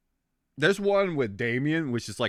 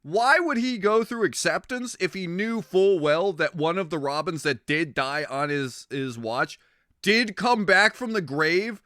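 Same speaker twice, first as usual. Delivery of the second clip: exasperated ranting; 6 semitones higher than usual. Retold or imitated. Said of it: "I'm just like".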